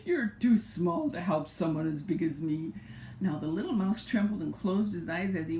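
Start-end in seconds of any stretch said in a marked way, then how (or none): 0.1-2.7 a hint of a scornful lion. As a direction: sneer at the tiny mouse. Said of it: "he said scornfully".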